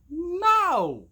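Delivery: shouted high no; emphatic no. Real, not acted. Parent rejecting blame on parents, sudden shouted no. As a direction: cut the idea down hard. Answers own question with outburst.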